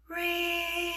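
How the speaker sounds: high, held ring on one note; imitated phone ring. Phone rings during a couple's dinner, imitated ringing.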